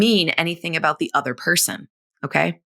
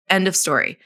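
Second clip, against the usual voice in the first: normal talking voice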